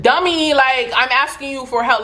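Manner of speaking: mild mock exasperation at a confused stranger; exasperated.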